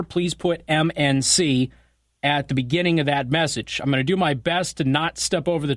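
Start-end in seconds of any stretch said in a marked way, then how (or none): none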